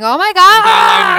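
slow, loud, high drawn-out gasp; hammed-up goth horror; dramatic vampire gasp. Picturing Joe as a vampire, slow loud hammy gasp. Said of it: "picture Joe ... going".

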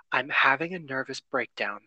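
flat and dry; deadpan serious. Retold or imitated. Audrey Hepburn telling Cary Grant in the phone booth, deadpan. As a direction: say it dead straight, no emotion. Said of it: "deadpan serious".

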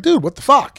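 mock-annoyed burst at the wife; husband retelling his annoyance at his wife's silence; a little angry. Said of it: "at first I'm a little angry".

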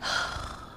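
long soft exhale; heavy sigh. Real, not acted. Podcaster pausing mid-cry to collect herself, soft sigh. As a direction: let out a composing sigh.

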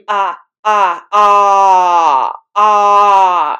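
loud open ah cries, drawn out; loud tuning cries. Shown as a demonstration. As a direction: let out long loud ahs as if voice is tuning. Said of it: "I started to make these noises with my mouth".

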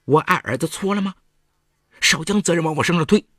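high, loud defensive yell. A narrator's reading. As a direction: shout it back, hurt and angry. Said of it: "李桂莲吼道".

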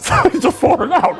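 high laughter through the words; laughing. Real, not acted. Laughing while telling the fall.

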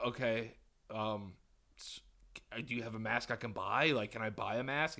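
asking nicely, almost apologizing; meek polite ask. Retold or imitated. Shopper politely asking the clerk to sell a mask, soft and timid. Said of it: "I'm really, really polite".

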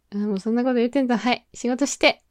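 very fast, offhand dismissive patter; rapid brush-off. Pretend. Shooing a teasing coworker back to work, rapid offhand brush-off. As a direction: rattle it off and send them back to work. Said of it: "こう受け流す系？".

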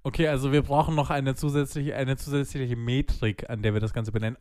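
slightly slurred, slowed words; tipsy slur creeping in; slurring. Real, not acted. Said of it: "ich lall schon so richtig".

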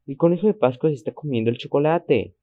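put-on serious little girl near crying; unusually serious child. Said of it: "con un tono de voz inusualmente serio".

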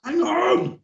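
loud. Real, not acted. Stopping the countdown.

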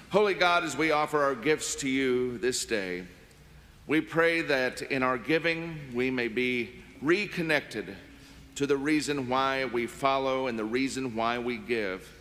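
reverent, measured prayer. Acted. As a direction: pray it earnestly and steadily. Offertory prayer after announcements.

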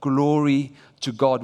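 slow, drawn-out Glory to God with glory stretched long; slow declaration. Shown as a demonstration. Preacher shows the church how to declare it, slowly and drawn out. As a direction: linger on glory, proclaim it slowly. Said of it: "I want us to walk out and say".

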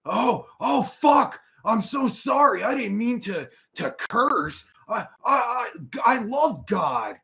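fake-pious groveling to a scolding viewer; sarcastic I love God, slowly; mock apology.

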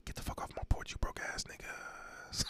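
hissed whispered threat; scary whisper. Pretend. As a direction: whisper it like a creepy ghost. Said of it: "I'm like".

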